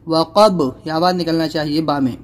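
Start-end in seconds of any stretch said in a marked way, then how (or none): 0.1-0.6 the ب in وَقَبْ cut short without a bounce; wrong way. Shown as a demonstration. Teacher demonstrates the incorrect flat ending. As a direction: stop dead on the ب of وَقَبْ. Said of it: "اگر ایسے پڑھیں گے وَقَبْ تو نہیں".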